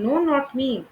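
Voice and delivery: "know not me" each word stressed evenly; three stresses. Shown as a demonstration. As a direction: lean on "know", "not" and "me" alike. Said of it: "The three stressed syllables in".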